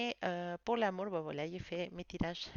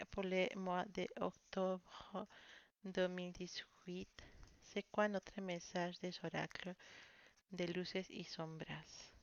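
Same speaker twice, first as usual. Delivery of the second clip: slow, soft, half-whispered; mysterious murmured question; hushed question; 6 dB quieter than usual. Real, not acted. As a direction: ask the cards in a hush. Asking the oracles for the message.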